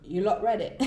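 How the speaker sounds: put-on a light British accent. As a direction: try on a British accent, quick and bouncy. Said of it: "I'm giving you my best British accent".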